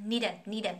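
"need them" run together as need-dem; soft linked d. Shown as a demonstration. Teacher drilling learners, "need them" softly linked as need-dem. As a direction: soften the d and join "need them" into one word. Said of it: "nó mềm mại kiểu vậy thôi".

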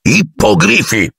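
high, stretched-out jubilant announcement; cheerful roar. A narrator's reading. Hagrid presents his creatures, cheerfully calling out. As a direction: proclaim it with glee, drawn out. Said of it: "ruggì allegramente Hagrid".

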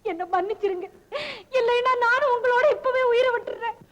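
weeping wife begging; tearful pleading. Acted. Wife begging her husband not to die, tearful. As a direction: plead through sobs.

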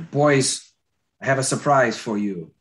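Scottish father announcing a treat, lightly voiced; storyteller's mild Scottish brogue; Scottish accent. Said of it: "that's my Scottish accent".

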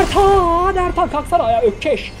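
shouting a teammate's name; calling out. Real, not acted. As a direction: call him to get up.

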